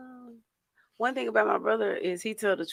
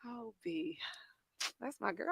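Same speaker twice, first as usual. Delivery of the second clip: fond whisper; 5 semitones higher, 14 dB quieter than usual. Real, not acted. Fond reply to a friend.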